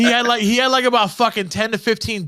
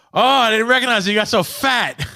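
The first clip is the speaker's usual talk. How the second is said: higher, sing-song mock of mom; teasing mom voice; 5 semitones higher than usual. Mom greeting her son, sing-song teasing. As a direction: tease him in mom's lilting voice.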